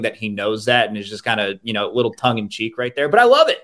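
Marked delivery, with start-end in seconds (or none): 3.1-3.6 a burst of happy enthusiasm; excited. Real, not acted. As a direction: gush about it with real delight. Enthused about the food addition.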